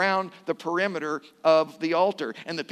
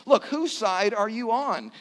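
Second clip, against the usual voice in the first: raised-pitch demand to choose; blunt challenge; 5 semitones higher than usual. Acted. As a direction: press them to pick a side. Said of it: "He was pretty black and white".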